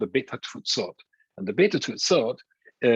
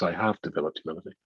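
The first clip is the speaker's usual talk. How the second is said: mock boast; 3 semitones higher than usual. Real, not acted. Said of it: "No, joking".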